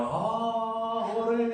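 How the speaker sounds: high, loud cheer; bursting with joy. Acted. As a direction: explode into an acted hooray. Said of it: "Begitu dia akan meledak".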